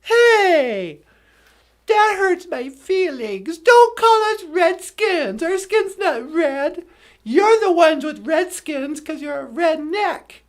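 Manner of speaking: hammed-up nineties Karen protesting; mock offended Karen. Comic voices nineties Karens protesting the name, hammed-up. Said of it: "all these Karens in the nineties suddenly went".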